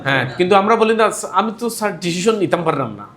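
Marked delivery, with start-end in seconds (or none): 1.3-3.1 learner's wrong ডিসিশন, hushed SH in the middle; mispronounced decision. Retold or imitated. Teacher mimics students' faulty English, mispronouncing ডিসিশন with SH. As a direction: say ডিসিশন with a soft SH in place of ZH. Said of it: "এটা কি শুদ্ধ হইছে?".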